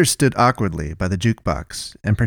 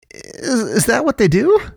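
very high, halting question with a faint start; falter, then ask it high and rising; tearful horror; 14 semitones higher than usual. A narrator's reading. Watery-eyed man asking about the killers, tearful horror.

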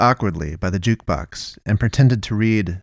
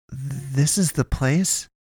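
soft, slow, higher-pitched question; wondering; 5 semitones higher, 6 dB quieter, much slower than usual. A narrator's reading. Naomi arriving at a roadside bar, quietly wondering. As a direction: ask it softly and slowly, unsure. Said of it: "Naomi wondered".

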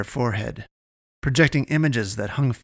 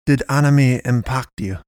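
cold demand; 2 semitones higher, 5 dB louder than usual. Acted. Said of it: "the Pastress demanded coldly".

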